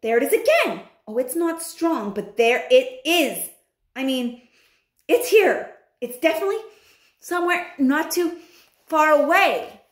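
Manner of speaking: high, loud sniffing witch; excited witch voice. Acted. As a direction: sniff and insist, getting shriller. Mildred sniffing out the smell.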